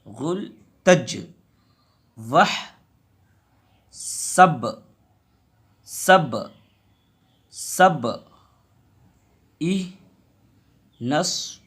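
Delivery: final consonant bounced with a small echo; qalqala echo. Shown as a demonstration. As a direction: let the last letter knock and rebound. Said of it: "जहाँ पर हुर्फ कलकला है वहाँ पर double आवाज़".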